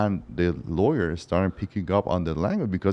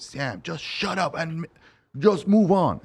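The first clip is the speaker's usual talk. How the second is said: higher, dismissive mock of the other lawyer; rude counsel; 9 semitones higher, slower than usual. Opposing counsel snaps at him.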